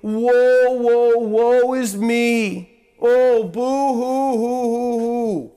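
slow hammed-up woe-is-me whine; mock wailing boo hoo; mock self-pity. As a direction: camp up a sulky pity party with a fake sob. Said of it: "lay there and sulk".

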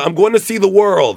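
put-on light Russian accent. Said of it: "in my best Russian accent".

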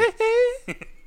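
high falsetto hee-hee squeal; a singer's hee-hee. Retold or imitated. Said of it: "It's a good try".

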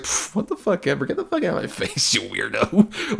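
mock dismissive. Jolie's dismissive reply mocked.

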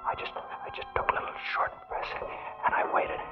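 breathless, trembling whisper; barely breathing, terrified whisper; short breaths. Acted. Waiting in the dark with a revolver, holding his breath: shaky whisper. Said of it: "I couldn't breathe very good".

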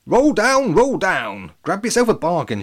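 high, loud market cry; stallholder shouting. Acted. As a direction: call out to the crowd. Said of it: "she was shouting".

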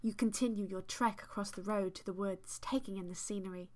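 measured, deliberate storytelling read; story narration. A narrator's reading. Host reads fan fiction to co-host, story narration. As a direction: read it like an unfolding tale.

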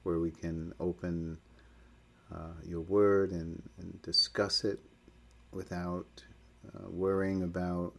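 measured, slightly subdued public prayer. Real, not acted. Leading a church study group in opening prayer, earnest prayer. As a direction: pray aloud for the group, pausing between phrases.

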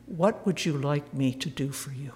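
delicate and sensitive. Retold or imitated. Jesus gently asks the blind beggar, delicate and sensitive. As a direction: ask it tenderly, as if afraid to intrude. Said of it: "so delicate and so sensitive".

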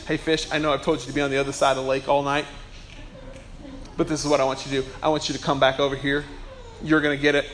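low, soft, casual instructions; a lightly voiced God talking quietly to fish; God instructing fish. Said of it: "you know what he told those fish?".

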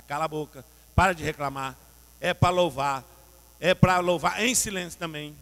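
loud, firm rebuke; stern scolding. Acted. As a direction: tell him off sharply to hush and praise. Jesus scolding Jairo, voiced.

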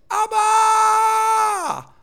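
high, long-held cry at full volume; full shout. Shown as a demonstration. Preacher shows how the Spirit shouts, a long loud cry. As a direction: shout it out and stretch the last vowel. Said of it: "schreeuwt de geest".

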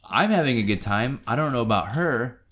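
dry teasing joke; sarcastic. Retold or imitated. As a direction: say it tongue in cheek. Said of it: "sarcastically say".

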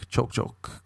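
choke, choke, susurrado sin voz; breathy choking whisper. Shown as a demonstration. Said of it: "all you do is choke".

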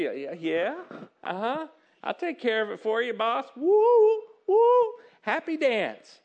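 acted giddy agreement building to high, loud woos; mock happy-dance glee, whooping at the end; so excited. Employee to boss on being handed a fortune, so excited. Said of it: "So excited".

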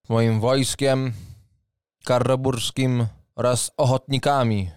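formal booming knight captain; proud knight. Acted. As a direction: announce yourself with noble pride. GM voices knight Leopold.

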